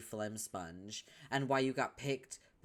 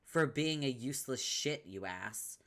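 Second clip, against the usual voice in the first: angry insult; 2 semitones higher than usual. Acted. Vriska insulting Tavros.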